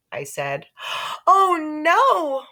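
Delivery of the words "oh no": much higher, loud horrified cry; mother crying out in shock. A narrator's reading. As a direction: gasp it out in dismay. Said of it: "my mother cried".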